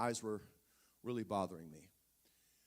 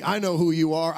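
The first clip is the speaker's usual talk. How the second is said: booming voice; 3 semitones higher, 17 dB louder than usual. Retold or imitated. God answers in retold scene.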